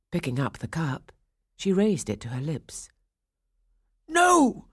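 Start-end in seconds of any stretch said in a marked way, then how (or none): 4.1-4.7 high, loud frantic shout; frantic cry. A narrator's reading. Old man stopping his doll from drinking, shouting high and loud. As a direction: stop her at all costs. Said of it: "cried Coppelius".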